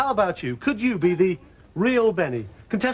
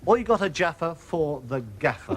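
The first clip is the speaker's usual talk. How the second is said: put-on Cockney accent; 4 semitones lower than usual. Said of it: "coined that now classic English phrase".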